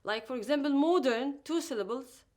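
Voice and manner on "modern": MO-dern, stress on the first syllable; stress before last syllable. Shown as a demonstration. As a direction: lean on the MO of modern. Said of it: "stressed on the syllable before".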